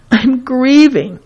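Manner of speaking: slow, understated demo of grief; grieving. Shown as a demonstration. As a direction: draw the words out, mildly grief-stricken. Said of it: "It's a spectrum of intensity".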